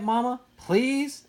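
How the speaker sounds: high, slow begging; pleading. A narrator's reading. Boy begging his mother for the movie, slow pleading. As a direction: drag it out, begging mama.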